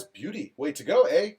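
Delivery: light mock Canadian, "eh" left rising; first go at a Canadian accent. Host reads Daniel's comment aloud, in a mock Canadian accent. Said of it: "It's like a northern, southern Canadian".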